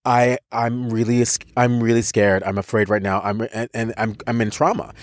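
mildly reenacted scared stammer; stuttering fear. Retelling his fright before two soldiers, stuttering. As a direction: stammer out the words with restarts and repeats. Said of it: "I start stuttering".

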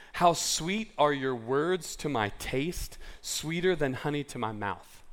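slow, relishing reading of the verse; savoring scripture. Shown as a demonstration. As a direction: linger over how sweet. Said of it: "he says in verse one of three".

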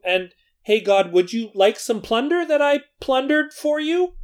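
mock defensive whining, rising and hurried; whiny excuse-making Saul. Preacher mocking Saul's excuses to God, whiny and defensive. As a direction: play Saul squirming out of blame. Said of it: "He went".

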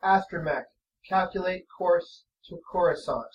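level, flat monotone; deadpan robot command. Acted. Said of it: "same flat monotone voice".

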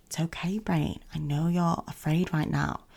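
put-on whispered, gentle reassurance to a scared child; calm compassion. Shown as a demonstration. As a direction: hush it softly, like soothing a child afraid of monsters. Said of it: "speak back to that voice with the kind of calm compassion".

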